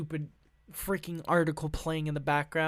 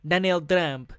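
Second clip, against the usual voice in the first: put-on Russian accent gone French; 4 dB louder than usual. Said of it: "Vladimir Putin is now a French".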